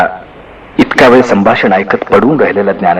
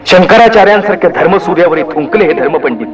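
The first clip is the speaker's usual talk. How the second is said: raised, higher voice, indignant; indignant son venting, higher and sharper; angry outburst; 8 semitones higher than usual. A narrator's reading. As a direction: lash out at the hypocrite priests. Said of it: "संतप्त निवृत्तीचं वाक्य".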